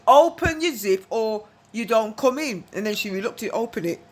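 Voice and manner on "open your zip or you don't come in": stern ultimatum. Retold or imitated. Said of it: "She goes".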